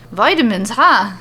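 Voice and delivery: amused, hearty tease; jolly. A narrator's reading. Becky to Alexa, jolly and amused about the vitamins. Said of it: "Becky says in a jolly voice".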